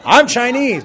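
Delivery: high, loud mock reply; squeaky mock "I'm Chinese"; timid answer mocked. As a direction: play a shy congregant. Mocking a timid hand-raiser.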